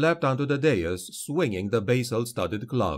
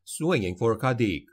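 plain reading voice

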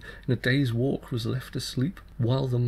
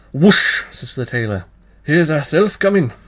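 louder, higher urgent hiss; alarmed warning; 3 semitones higher, 9 dB louder than usual. Acted. Tailor warns that the mother is coming back, loud and urgent. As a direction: warn him quick.

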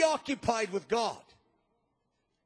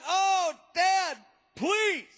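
higher-pitched mock plea to dad; pleading son; 5 semitones higher, much slower than usual. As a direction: drag it out like a begging kid. Boy David pleading with his dad.

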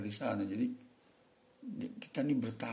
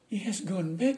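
servant voice; 9 semitones higher, 3 dB louder than usual. Acted. Servant reporting to his boss.

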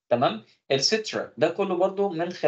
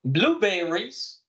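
very slow "Blueberries", syllable by syllable; slow model word; 3 semitones higher, much slower than usual. Shown as a demonstration. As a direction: say it slowly for them to repeat. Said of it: "يا ريت نردد مع بعض".

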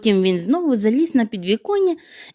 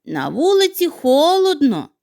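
hedgehog's reply; 4 semitones higher than usual. Acted. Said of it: "відповів їжачок".

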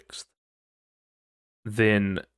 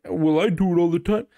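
higher-pitched imitation of an objector; put-on defensive voice, pitched up; mock protest; 8 semitones higher, 4 dB louder than usual. Voicing a listener who objects about their friend group, mock protest.

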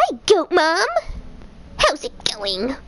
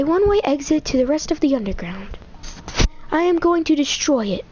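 Goat Mom voice. Acted. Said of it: "I can't voice characters in Undertale".

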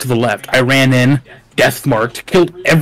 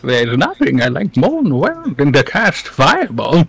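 put-on old wizard voice. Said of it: "It's his old man voice".

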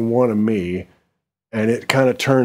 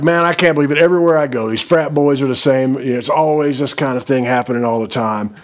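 a lightly voiced, raised griping rocker; a singer griping; 3 semitones higher, faster than usual. The singer griping to the narrator after the fight, lightly voiced. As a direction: shake your head at the same old frat boys. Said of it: "So he's like".

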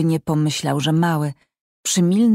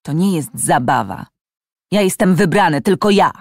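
loud, pressing defiance; defiant insistence; 4 dB louder than usual. Acted. Kolgrim claims to Tarjaj he is chosen, loud defiance. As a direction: insist you alone are chosen.

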